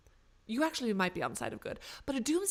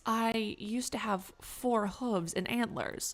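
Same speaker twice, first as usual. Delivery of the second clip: slow, deliberate reindeer explanation; lightly voiced confused reindeer; much slower than usual. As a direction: explain your plight slowly, as a bewildered reindeer. Plays transformed reindeer explaining itself.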